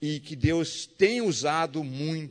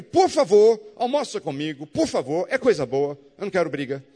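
earnest pleading; 5 dB louder than usual. Retold or imitated. Begging enemy to lunch.

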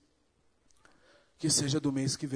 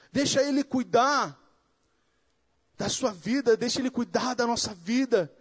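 higher and louder, fervent preaching; preaching at full force; 10 semitones higher, 6 dB louder than usual. Acted. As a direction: build it up like a pulpit climax. Preaching climax. (pregação inflamada, mais aguda e mais alta)

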